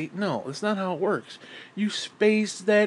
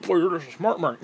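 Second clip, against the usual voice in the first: mocking a smug fan. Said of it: "No, no".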